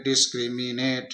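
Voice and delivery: "डिस्क्रिमिनेट" measured out as "डिस-क्रि-मि-नेट"; syllable by syllable. Shown as a demonstration. Teacher reading the long word in pieces, "डिस-क्रि-मि-नेट" syllable by syllable. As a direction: give each chunk of "डिस्क्रिमिनेट" its own beat. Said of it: "टुकड़े करके हम इसको पढ़ सकते हैं".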